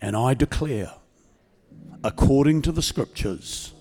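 slow, measured prayer for the church to repeat; prayer leading. Acted. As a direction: lead them line by line in prayer.

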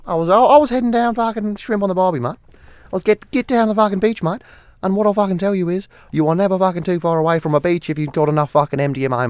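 high, hammed-up Aussie bloke; broad Australian, pitched well up; Australian accent. Showing off a best accent with beach talk, mock Australian. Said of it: "my best accent's my Australian".

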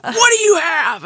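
put-on high, slow accusing kid voice; a little brother pouncing on a secret; bratty brother. Brother catching his sister with candy, high accusing kid voice. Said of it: "he immediately whipped over the side and was like".

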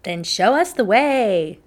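high, loud call to action; urgent cry. A narrator's reading. Raggedy urging Peterkins to lead, high urgent cry. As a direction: cry out with resolve. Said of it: "Raggedy Ann cried".

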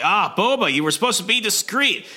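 lightly voiced scolding hero; Valance scolding Boba.

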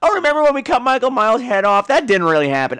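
mocking the movie. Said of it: "I'm looking at you".

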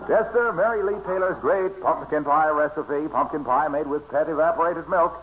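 smooth radio ad pitch; glowing commercial read for the pie. Acted. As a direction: sell the pumpkin pie like an announcer. Guest slips into a pie commercial.

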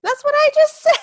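high, loud, laughing through it; exasperated laugh; laughing exasperation. Real, not acted. Repeated complaint with laugh.

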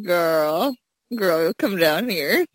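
imitated Southern accent, drawn out; Southern belle accent. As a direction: put on a Southern belle summons. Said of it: "Southern Belle accent when you're like".

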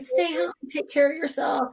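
a light tender nudge; gentle voice. Retold or imitated. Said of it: "with this gentle voice saying".

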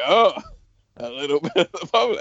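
lightly imitating a fake English accent, fast; a touch of Jericho's put-on English lilt; quick hammed-up English toast; mock English accent. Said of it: "trying to go for an English accent".

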